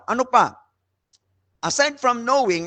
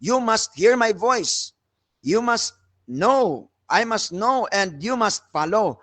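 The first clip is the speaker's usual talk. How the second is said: slow, stern "You must hear my voice" as an order; preacher demonstrating a command; slower than usual. Shown as a demonstration. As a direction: lay each "must" down like a rule. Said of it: "Kaya kung command yan".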